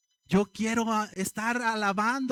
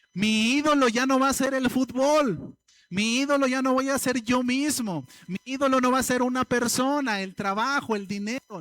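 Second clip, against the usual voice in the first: preaching louder; 4 semitones higher, 4 dB louder than usual. Acted. Preaching climax against idols.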